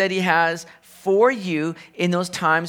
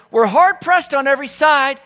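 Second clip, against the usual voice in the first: emphatic; 7 semitones higher, 6 dB louder than usual. Acted. Quoting Paul, emphatic repeat.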